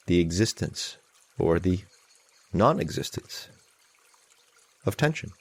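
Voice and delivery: measured meditation guidance with long pauses; guided meditation. Real, not acted. Teacher leading an online group in calming anxiety, guided meditation. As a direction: guide them gently, leaving long silences.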